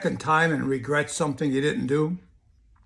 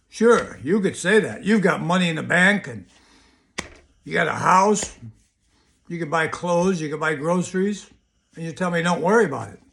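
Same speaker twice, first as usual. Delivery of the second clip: mildly pissed-off retort, raised pitch; retold annoyance; 3 semitones higher, 4 dB louder than usual. Broke child answers mother back, retold annoyance. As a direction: push back at the advice, listing grievances. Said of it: "Oh, I was so pissed".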